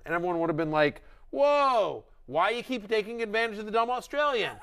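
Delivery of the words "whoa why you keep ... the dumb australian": high scoffing league mate; mock league mate. Mocking league mates' reaction.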